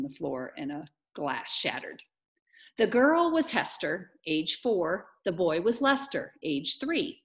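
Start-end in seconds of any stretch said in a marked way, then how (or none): 2.8-7.2 lively, rhythmic storybook reading; story narration. A narrator's reading. Teacher reads about the twins to the class, story narration. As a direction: introduce the little ones to young listeners.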